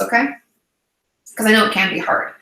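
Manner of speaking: ordinary talk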